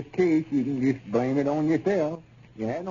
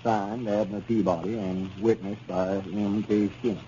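reading aloud; 3 semitones lower than usual. Acted. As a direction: spell out each clause carefully as if reading it aloud. Lum finishes reading the agreement.

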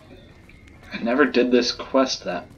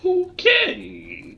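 surprised high okay. Real, not acted. Reacts to odd quest order.

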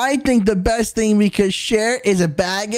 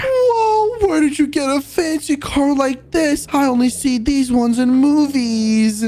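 high amazed whoa; 3 semitones higher than usual. Real, not acted. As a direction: gasp at the fancy car. Amazed at the fancy car.

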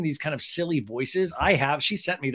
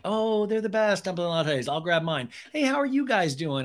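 mock cheeriness; 4 semitones higher than usual. Acting Ariana's cheery reply.

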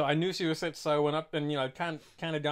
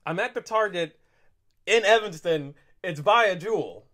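angry; 8 dB louder than usual. Retold or imitated. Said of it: "you can hear the anger in my voice".

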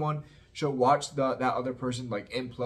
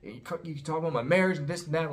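imitating angry Karen; 5 semitones higher than usual. Karen snapping at the table, mock heated. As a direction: fire it back like Karen losing patience. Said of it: "Karen gets mad".

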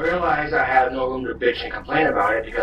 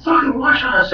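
high, snippy imitated brush-off; mock the woman in a high voice; high, snotty retold warning; dismissive warning. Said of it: "She's like".

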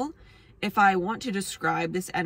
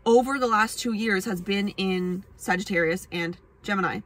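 ordinary talk

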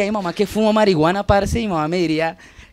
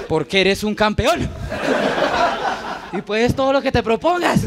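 self pep talk. Pretend. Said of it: "me digo".

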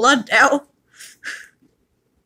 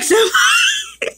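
squeaky high laughing cry of the name; high squealed name, breaking into laughter; squeal through laughter. Real, not acted.

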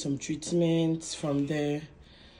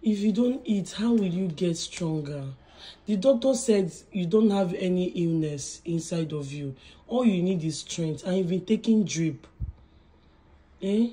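insistent, raised-voice reasoning; exasperated urging; 3 dB louder than usual. Real, not acted. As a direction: press a weak patient to eat, emphatically. Urging the patient to eat.

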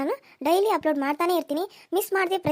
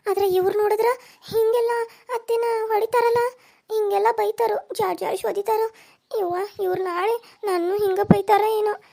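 put-on higher voice of a worried young bride; a young wife fretting over the in-laws, pitched up; young daughter-in-law; 4 semitones higher than usual. (ಚಿಂತೆಯಲ್ಲಿರುವ ಸೊಸೆಯ ಎತ್ತರದ ಧ್ವನಿ)

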